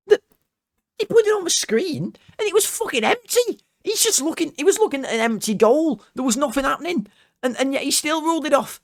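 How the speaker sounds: high-pitched incredulous rant; fuming. Real, not acted. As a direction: voice shooting right up in outrage. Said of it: "I was fuming at him".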